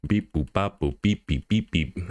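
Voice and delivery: short staccato "beep, boop" timing sounds; snappy beeps. Shown as a demonstration. Animator sounds out transition timing in snappy beeps. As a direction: tick off each move with a quick beep. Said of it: "a lot of these are snappy".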